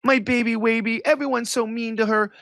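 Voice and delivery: lovey-dovey baby talk, hammed up; mock baby talk. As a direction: coo it like a lovesick boyfriend, mocking him. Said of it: "he's online going".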